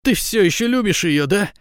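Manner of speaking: high, loud woman's cry; shouted. A narrator's reading. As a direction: shout it as a high, jealous demand. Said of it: "закричала".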